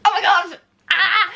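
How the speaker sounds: high, loud laughing squeal; excited squeal. Real, not acted. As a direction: burst with joy. Opening her book proof.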